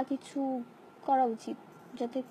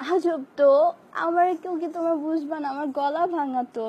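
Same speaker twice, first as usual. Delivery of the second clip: exasperated outburst; 2 semitones higher, 5 dB louder than usual. Real, not acted. To fans begging for a song, exasperated and louder. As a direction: snap back at fans who won't listen.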